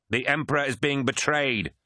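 high, urgent protest; acted outrage. Crewman protesting the Emperor's betrayal, outraged.

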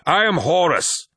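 high, loud yell of his name. A narrator's reading. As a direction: bellow the name in frustration. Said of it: "he yelled".

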